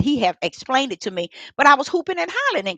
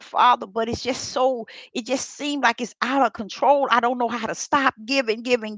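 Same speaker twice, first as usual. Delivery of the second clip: a hint of tears, asking why; tearful prayer; 2 semitones lower, 5 dB quieter than usual. Retelling her tearful prayer to Father, softly pleading. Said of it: "I was crying".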